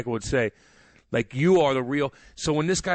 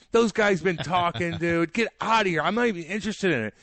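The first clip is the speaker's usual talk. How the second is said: heated rant; 4 semitones higher than usual. Real, not acted. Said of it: "A little emotional".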